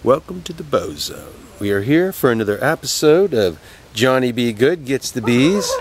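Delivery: upbeat TV host intro; announcer voice. Acted. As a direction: present it like a live broadcast. Mock live TV host intro.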